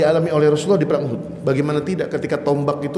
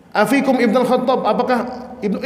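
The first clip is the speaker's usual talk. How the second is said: high-pitched calling out, not full volume; mock a commander yelling a question; imitated shout; 7 semitones higher than usual. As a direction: call out high, like an enemy across a battlefield. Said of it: "itu sambil teriak".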